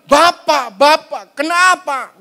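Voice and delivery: loud, pleading call to a father; acted cry out. Jesus asks his Father why he is forsaken, acted cry. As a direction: call out insistently, each word pushed. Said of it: "sampai dia berteriak".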